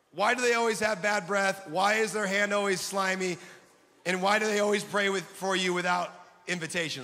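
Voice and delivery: loud, exasperated comic griping; mock complaint. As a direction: gripe loudly to the audience. Mock complaint about weird prayer givers.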